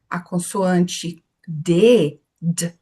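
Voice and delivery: D said as a bare consonant, no vowel after; slow teacher demo of the pure D sound. Shown as a demonstration. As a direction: stop right on the D. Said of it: "treinar a pronúncia pura das consoantes".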